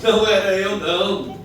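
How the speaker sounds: high, loud protest; insistent denial. Acted. Peter denying he knew him, loudly protesting. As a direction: deny it hotly.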